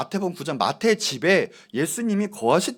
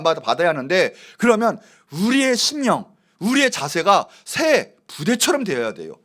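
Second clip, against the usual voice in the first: raised, emphatic pulpit voice; forceful preaching; 5 semitones higher, 6 dB louder than usual. Real, not acted. Preacher urging the congregation to be new wineskins, forceful preaching. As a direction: preach it with urgency and punch.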